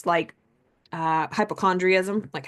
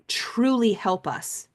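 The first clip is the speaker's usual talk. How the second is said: whispered; 2 semitones higher, much slower than usual. Real, not acted. Whispered emphasis on mindset.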